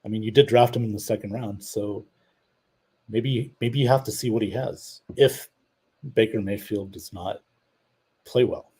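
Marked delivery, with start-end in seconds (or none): 5.2-8.7 "if" punched out and set apart before the rest; stress on "if". Real, not acted. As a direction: lean hard on "if", then carry on evenly. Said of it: "I emphasize that word "if".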